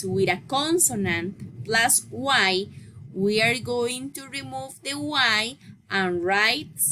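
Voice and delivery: measured classroom reading of a grammar rule; slow rule reading. Shown as a demonstration. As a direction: read the rule out slowly, word by word. Reads the English rule aloud.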